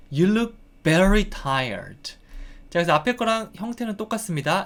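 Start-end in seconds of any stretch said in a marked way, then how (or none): 0.1-2.1 strong emphasis landing squarely on "very". English lesson, showing the answer sentence: stress on very. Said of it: "very 붙여줬고요. 강조, 강세 주시면 됩니다".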